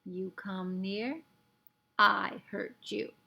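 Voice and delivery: slow, gruff warning; gruff threat. A narrator's reading. Tiny Indian warning off Omri, slow gruff threat. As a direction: hold the threat heavy and slow. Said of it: "said the Indian swiftly".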